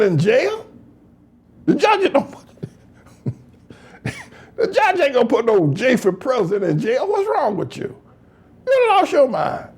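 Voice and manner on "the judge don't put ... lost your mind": pitched up high, amused disbelief; mock indignant scolding. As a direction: act out an incredulous rebuke. Voicing Hamite person's scolding.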